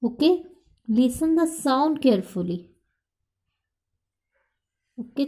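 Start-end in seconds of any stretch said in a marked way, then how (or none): 0.9-2.6 slow, careful instruction. Shown as a demonstration. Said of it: "teacher repeats instruction".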